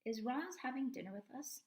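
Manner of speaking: put-on high, eager little-girl voice; young girl. Daughter asking her father about the robot, high and eager. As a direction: ask it like a hopeful young daughter. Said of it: "said Jaya".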